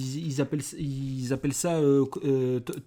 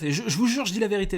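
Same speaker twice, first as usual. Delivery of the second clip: pleading prisoner; 8 semitones higher, 5 dB louder, faster than usual. Acted. Knife at prisoner's head.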